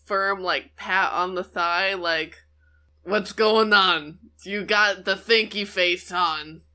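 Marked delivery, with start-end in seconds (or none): 3.0-6.6 character voice. Acted. Kara nudges her friend.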